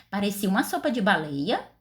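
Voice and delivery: "baleia" rises as a question; question tune. Shown as a demonstration. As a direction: ask it again, rising at the end. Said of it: "eu fiz uma pergunta".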